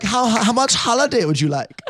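high-pitched imitation Austrian accent; butchered Austrian accent. Retelling hosts offering a holiday, butchered Austrian accent. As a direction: do a sweet host in bad Austrian. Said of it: "I'm butchering this accent for them".

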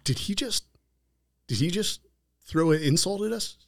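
high-pitched, incredulous questioning; mock disbelief. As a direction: act out a baffled, offended reaction. Acting out the insulted men's disbelief.

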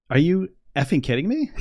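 high, laughing retold shock; laughing disbelief. Retelling his reaction to her question, laughing.

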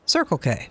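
"Circle K" with CIRCLE stressed, K falling; first-word stress. Shown as a demonstration. Host repeats her odd way, "Circle K" front-stressed. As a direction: hit "Circle", drop on "K". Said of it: "on the first syllable".

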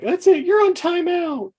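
very high, slow stern scold; scolding mother. Retold or imitated. Woman scolds Link like a child, high slow stern voice. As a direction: punish him like a child.

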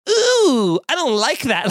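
a sudden yelp of discomfort, played up; squeamish ooh. Poking inside the belly button, a mock squeamish squeal. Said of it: "every time you're like".

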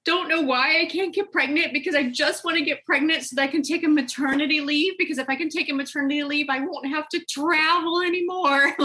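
high, teary voice, half laughing at herself; imitating her younger self crying in the car; a mild mock sob of frustration; retold tearful plea. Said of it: "And I just started crying".

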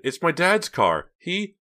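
high, loud protest; shouting. A narrator's reading. Pam protests over her dad's car, shouting. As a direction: protest in alarm, breaking off. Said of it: "she shouted".

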